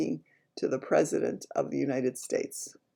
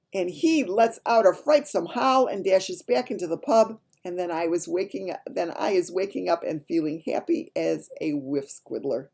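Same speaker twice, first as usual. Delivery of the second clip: higher, lively read-aloud voice; animated storytelling; 4 semitones higher, 6 dB louder than usual. Acted. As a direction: tell it like an excited child's tale. Reads the dream story animatedly.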